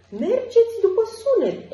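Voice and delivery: high, loud rallying call; excited exclamation. A narrator's reading. Jake calling the crew to follow the music, high and loud. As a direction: urge the crew to follow the sound. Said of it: "exclamă Jake".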